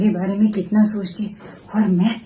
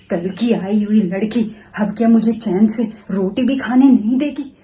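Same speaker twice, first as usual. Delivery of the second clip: indignant outburst; 4 dB louder than usual. Acted. Mother-in-law complains about daughter-in-law.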